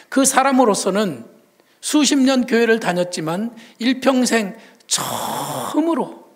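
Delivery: usual speaking voice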